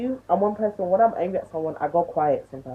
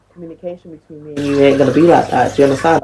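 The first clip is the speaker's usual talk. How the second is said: much louder, laying down the law; loud scolding; 3 semitones lower, 10 dB louder than usual. Real, not acted. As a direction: scold him loudly so he hears it. Ranting at men who won't commit.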